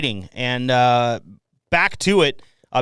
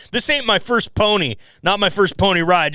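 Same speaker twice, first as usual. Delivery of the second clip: higher, teasing quote; mock quoting; 5 semitones higher than usual. Podcast host teasing his guest's slip, higher teasing quote. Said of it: "I kinda wish you woulda left it as".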